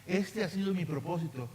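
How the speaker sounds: earnest spoken prayer. Acted. Pastor praying over the church, earnest prayer voice. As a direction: pray over the congregation, steady and sincere.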